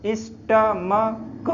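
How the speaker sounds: "स्टमक" slowly, in separated syllables, ending in k; syllable-by-syllable pronunciation. Shown as a demonstration. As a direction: sound out "स्टमक" slowly for learners. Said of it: "क्या बोलते हैं ना इसको?". ("स्टमक" धीरे-धीरे तोड़कर, अंत में क)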